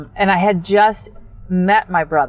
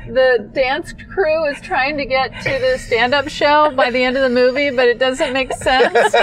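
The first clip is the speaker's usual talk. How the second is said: a hint of a higher, bemused friend; lightly voiced friend; 8 semitones higher than usual. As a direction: quote her, lightly raised and puzzled. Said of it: "she goes".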